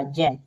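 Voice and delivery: ज as a J with a short open vowel, dropped in pitch; phonic Z sound. Shown as a demonstration. Teacher shows how Z is read, low phonic sound ज. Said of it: "उसका उच्चारण ज होगा".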